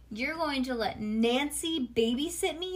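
mild, high-pitched outraged yell; yelling child. A narrator's reading. Bean objects to her sister babysitting, mildly acted yell. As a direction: protest in disbelief at your parents. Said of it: "yelled Bean".

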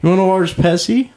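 mock accent asking about a large Pepsi; mock Chinese accent. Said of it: "All Asian people don't talk like that".

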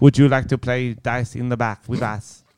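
put-on improvised Asian-accented server with a sly invitation; mock Asian accent. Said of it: "I don't know what accent that was".

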